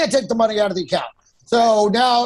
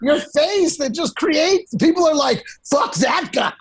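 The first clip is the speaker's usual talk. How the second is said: excited disbelief; 6 semitones higher than usual. Real, not acted. Friend ranting in amused disbelief.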